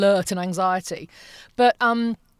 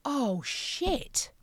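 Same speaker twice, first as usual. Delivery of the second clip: muttered realization; 5 semitones higher, 8 dB quieter than usual. Retold or imitated. Realising the hot flush mid-panic, soft. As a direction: drop it under your breath. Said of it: "and I went".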